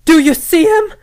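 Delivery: high, loud panicked shout at the corner; little cousin yells in the night at the corner, loud and panicked; frightened yell. Retold or imitated. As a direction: yell it out like a scared kid who sees a ghost. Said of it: "and yelled out".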